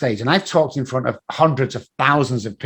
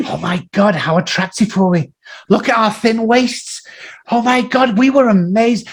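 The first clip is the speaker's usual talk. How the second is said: gushing over photo; 7 semitones higher than usual. Retold or imitated. Friends admiring old photo.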